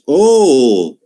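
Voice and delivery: a short mock gasp of surprise; surprised. Shown as a demonstration. Teacher demos surprise for the class, short and mock. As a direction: say "Oh" as if caught off guard. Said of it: "de sorpresa".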